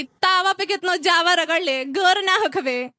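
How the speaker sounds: mocking mother. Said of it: "मेरी माँ मुंह पे बोलती है".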